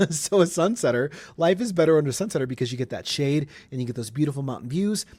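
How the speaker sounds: upbeat sponsor pitch; ad read. Acted. Host reading a sponsor spot, upbeat ad voice. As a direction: sell it like a radio ad.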